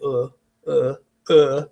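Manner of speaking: uh, uh, uh as a slack lazy schwa. Shown as a demonstration. Teacher showing the lazy schwa sound. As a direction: let uh, uh, uh drop out of a relaxed mouth. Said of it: "kinda lazy".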